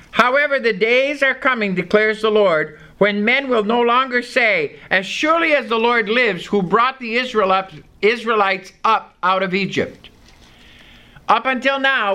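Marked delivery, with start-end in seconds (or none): 0.1-10.1 a slightly raised, measured Bible reading; scripture reading. Acted. Preacher reading Jeremiah to the congregation, measured and raised. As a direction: read the verse out to the congregation.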